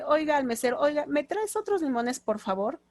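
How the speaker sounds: polite request. Shown as a demonstration. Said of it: "nuestro español es muy amable".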